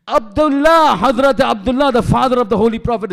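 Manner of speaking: loud, forceful preacher's proclamation; preaching emphasis. Real, not acted. Preacher to congregation, loud forceful emphasis. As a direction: ring out the name to the congregation. Preacher stressing the Prophet's father.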